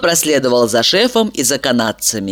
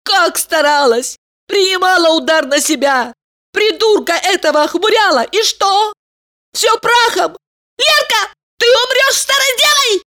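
shrieking. A narrator's reading. Elizaveta shrieks at her friend that all her effort was wasted. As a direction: wail it, rising to a screech. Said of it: "взвизгнула она".

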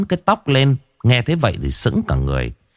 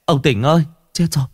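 put-on much higher, breathless urgent boy; panicked boy; 10 semitones higher than usual. Neighbour boy tells ông Tỉnh his son was hit by a car, much higher and panicked. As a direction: blurt the bad news in a frantic high voice. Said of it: "mồm nó méo xẹo".

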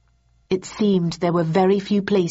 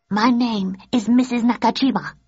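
higher, polite tour guide voice; announced; 5 semitones higher than usual. Acted. Mrs Nakajima introducing herself to Thursday, higher and formal. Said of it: "announced the woman".

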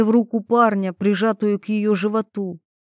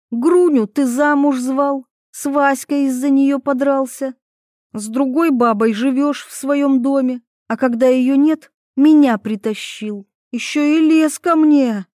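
higher, louder indignant list; accusing; 6 semitones higher, 4 dB louder than usual. Acted. Ivetta accuses Taras of other women, loud. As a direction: throw his deeds in his face.

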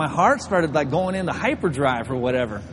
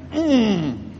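suppressed laugh; 4 semitones higher than usual. Acted. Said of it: "I was gonna laugh".

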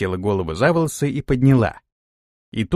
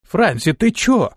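hotly shouting back in disbelief; heated shout; 7 semitones higher, slower than usual. A narrator's reading. Антон hotly shouts at Франси, pitch shooting up. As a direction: voice jumping high on чё. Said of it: "запальчиво прокричал Антон".

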